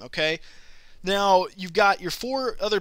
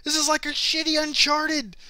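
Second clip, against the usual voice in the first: mock angry friend; 10 semitones higher than usual. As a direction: drag it out like a sulking gamer. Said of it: "He's like".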